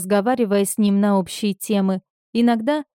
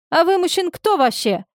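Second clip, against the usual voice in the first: much higher, puzzled demand; baffled at the stranger taking charge; bewildered; 9 semitones higher than usual. A narrator's reading. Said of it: "недоумённо спросила Мария". (недоумённо, высоко)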